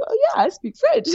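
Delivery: high, laughing bluff of a yes; laughing fake confidence. Lying to the stranger, laughing nervous bluff. Lying about speaking French.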